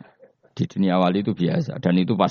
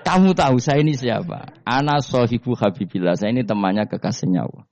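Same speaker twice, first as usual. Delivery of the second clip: mock boast; 2 semitones higher than usual. Umar's boast repeated.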